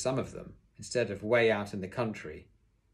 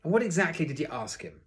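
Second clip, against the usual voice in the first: raised, forceful interrogation; too loud; 7 semitones higher, 5 dB louder than usual. A narrator's reading. Teacher questioning Sydney, loud demand. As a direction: demand it loudly, pitch up. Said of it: "I should probably say that line slightly differently".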